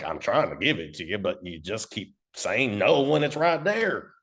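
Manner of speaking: put-on accent for God; God's exasperated reply in a put-on accent. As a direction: play God with an odd accent. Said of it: "God has an accent like that".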